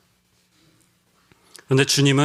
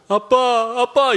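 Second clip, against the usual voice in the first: put-on high, tearful cry of a small boy calling for dad; crying child calling out; 8 semitones higher, much slower than usual. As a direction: imitate a lost child wailing for his father. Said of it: "이러면서 이제 울어요". (아빠를 찾으며 울먹이는 아이 목소리)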